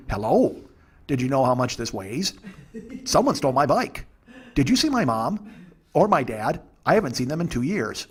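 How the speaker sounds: put-on chattering kid firing off non sequiturs; lightly voiced rambling little boy; Gavin from Kids in the Hall. Comic imitating a six-year-old's nonstop questions, lightly voiced kid. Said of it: "very much like Gavin from Kids in the Hall".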